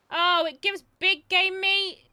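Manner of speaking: high, slow, sarcastic sing-song; mock the game's message. Reacting to unwanted loot.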